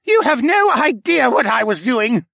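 loud, high furious roar; full-force angry shout. A narrator's reading. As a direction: roar it in outrage. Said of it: "Cadahy roared".

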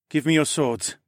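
pushy command; demanding. A narrator's reading. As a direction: demand it firmly. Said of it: "he demanded".

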